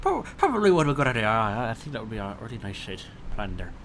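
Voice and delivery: put-on Irish accent. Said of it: "let's get right into the Irish accent".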